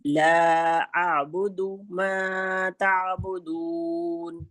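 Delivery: very slow chanted recitation, vowels drawn long; Quran recitation. Shown as a demonstration. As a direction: model the verse slowly while class listens. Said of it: "ہمیں جھٹکا نہیں دینا ہے".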